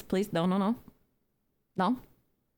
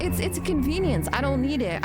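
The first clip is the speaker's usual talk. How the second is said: mocking Europeans; 6 semitones higher than usual. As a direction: mimic a smug European. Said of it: "They're like".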